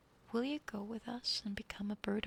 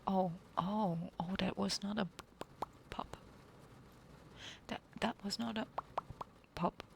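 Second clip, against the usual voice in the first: too-loud pop. Real, not acted. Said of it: "Oh. Oh no, I'm so sorry".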